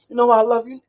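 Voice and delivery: high, loud repeated question; imitated drunk woman. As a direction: gush loudly in a tipsy woman's voice. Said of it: "She's drunk".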